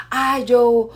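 agitated ranting. Acted. Upset person rants before police arrive, mock agitated yelling. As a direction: imitate someone ranting at the top of their lungs. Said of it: "está gritando todo pulmón".

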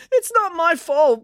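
high, slow, whiny protest; blubbering. A narrator's reading. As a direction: blubber it like a wronged child. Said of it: "blubbered Mister Chelsea".

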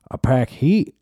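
mock Texan woman. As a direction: boast it like a gun-proud Texan. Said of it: "faction of women that were like".

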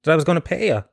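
imitating a cocky telling-off; mock confrontation. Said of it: "I said".

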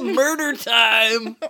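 slow creepy voice. Acted. Sinister clown punchline.

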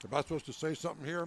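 talking through a mouthful of food; words round a bite of food; mouth full. Real, not acted. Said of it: "My mouth is full".

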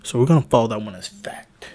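country bigot laying down the law; country accent. Acted. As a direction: lay on a loud country accent. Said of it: "I always do country".

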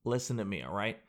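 low, hushed quoted voice; a rapper. Retold or imitated. Host voices rapper announcing his plan, low and quiet. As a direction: drop low and quiet, as if confiding an ambition. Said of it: "is he goes".

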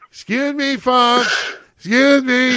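high sing-song "excuse me, folks"; Freddie's call. Retold or imitated. Busboy calling through the crowd, high sing-song. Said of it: "Freddie is doing his".

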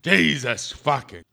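lightly voiced fed-up boss; exasperated boss. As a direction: drag out the curses in weary exasperation. Acts exasperated boss scolding Bruno.

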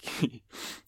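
short breathy snicker; small amused giggle before going on; quick quiet laugh; stifled giggle. Real, not acted. Amused at imagining gangster seagulls.

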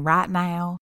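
light mock Southern twang on "right now", said like "rat now"; co-host teasing her Southern "right now", mock Southern twang; imitating Southern. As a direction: drawl "right" flat as "rat" in a hint of Southern. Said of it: "you sound Southern as fuck saying".

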